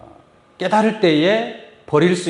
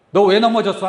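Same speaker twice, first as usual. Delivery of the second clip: mock scolding parent; 3 semitones higher, 4 dB louder than usual. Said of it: "하면서 막 혼내요".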